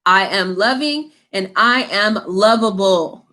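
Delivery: slow, measured affirmation spoken as a model; slow sincere self-affirmation; calm affirmation. Shown as a demonstration. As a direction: say it slowly, like a mantra to repeat. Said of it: "And your affirmation is".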